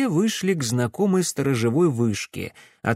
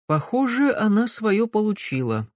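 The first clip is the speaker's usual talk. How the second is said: restrained; 8 semitones higher than usual. A narrator's reading. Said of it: "сдержанно добавила Камилла".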